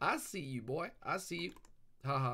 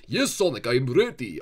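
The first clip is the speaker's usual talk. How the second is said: eager Knuckles reply; 9 dB louder than usual. Pretend. Knuckles answers Sonic, loud and eager. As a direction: shout back ready and keen.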